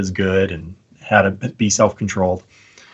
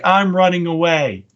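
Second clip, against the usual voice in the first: put-on slow, higher, a little kid's voice; kid's reply; 6 semitones higher than usual. Little boy telling his dad he's leaving, slow and small. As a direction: play the earnest little boy. Kid in retold doorbell video.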